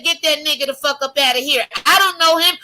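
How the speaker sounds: high, fast dismissive shout; Peter's denial. Retold or imitated. Peter brushing off the accusers, fast and high. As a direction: wave him off in a hurry.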